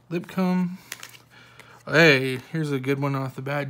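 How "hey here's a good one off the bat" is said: excited. Real, not acted. Spots a good card.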